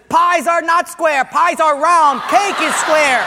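Portuguese guy answering the math question, loud and sure; proud loud answer. Acted. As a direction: announce it like it's obvious.

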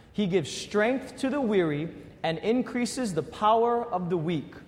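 slow unison reading; reading scripture aloud. Real, not acted. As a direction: read it out together, slowly. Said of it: "Let's read this together".

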